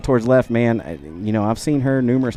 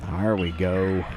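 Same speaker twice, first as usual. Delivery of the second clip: a hint of a pirate growl; slightly piratey call; 2 semitones lower, 4 dB quieter, slower than usual. Real, not acted. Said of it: "I think I sounded like a pirate right there".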